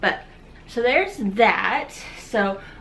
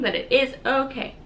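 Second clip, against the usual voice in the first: crying; 3 semitones higher than usual. Real, not acted. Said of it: "I'm crying".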